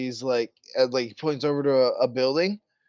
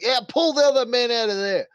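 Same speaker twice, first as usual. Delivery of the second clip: higher, louder call across to the men; yelled order; 10 semitones higher, 4 dB louder than usual. Acted. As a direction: yell an officer's order over to your men. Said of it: "yells over to the men".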